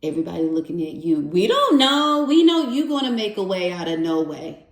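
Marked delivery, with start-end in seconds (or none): 1.2-4.6 mock chorus of people relying on mom; acted expectant crowd. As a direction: voice everybody piling it on, starting high and loud. Voices everybody leaning on mom.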